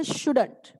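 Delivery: "shouldn't" as one word, falling; pronunciation model. Shown as a demonstration. Teacher showing how it is said, "shouldn't" run together. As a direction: say SHOULDN'T as should-unt, joined. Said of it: "इसको बोलते हैं".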